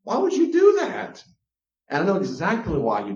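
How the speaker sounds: high, loud exasperated plea; exasperated outburst. Real, not acted. Ranting at parents who force kisses.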